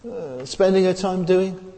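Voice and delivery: high, hushed mock gossip voice; gossiping churchgoer. Churchgoer mocking members criticising each other, in a high, hushed gossip. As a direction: whisper it like a nosy busybody passing on rumours. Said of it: "We're saying".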